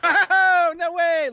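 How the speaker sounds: very high, alarmed denial; a dad panicking at his kid's words; mock shocked father. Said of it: "he was fucking like".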